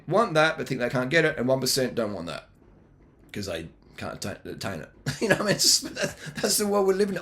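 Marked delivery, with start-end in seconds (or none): 5.0-7.2 laughing while talking, pitch up. Real, not acted. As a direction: chuckle through the words. Laughs at his own point.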